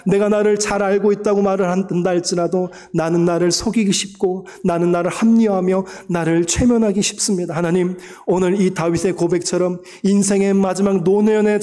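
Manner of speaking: congregation's loud prayer, led in fervent cry. Real, not acted. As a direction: pour it out to God over the music. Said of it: "통성으로 기도하겠습니다".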